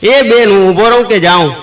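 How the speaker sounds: hollering after the lady; old uncle shouting after the women; calling out. Retold or imitated. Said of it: "કાકાએ રાડ પાડી કે".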